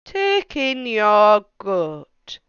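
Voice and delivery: put-on slow, deliberate wise old man; measured advice from an old sage. Wise old man advising the lady, slow and deliberate.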